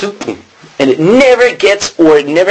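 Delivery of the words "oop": quick "oop" for an arrow's flight; imitated arrow sound. Shown as a demonstration. Preacher showing an arrow hit the target, imitated sound. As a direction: make a short whooshing shot noise. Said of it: "it goes".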